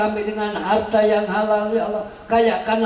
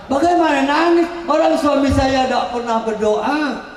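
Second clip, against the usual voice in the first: higher, louder mock complaint; complaining wife; 4 semitones higher, 3 dB louder than usual. Wife answering the preacher, mock complaint. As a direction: protest to the preacher like an exasperated wife. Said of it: "Alah Ustaz".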